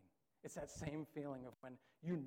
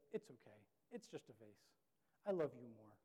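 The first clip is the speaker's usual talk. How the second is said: tender mom; 3 semitones lower than usual. Retold or imitated. Mom kneeling to comfort child over the vase, tender. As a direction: soothe the child gently. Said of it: "mom kneeled down, put her arms".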